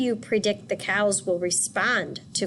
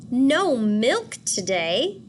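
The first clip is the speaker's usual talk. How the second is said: slow, louder disbelieving question; dismayed cry; 4 semitones higher, 4 dB louder, much slower than usual. Acted. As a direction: stretch it out in shock. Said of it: "cried Farmer Brown".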